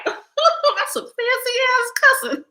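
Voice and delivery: high squeal through laughter; high, slow, laugh-filled delivery. Real, not acted. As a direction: crack up while getting the words out. Laughing at proper British cussing.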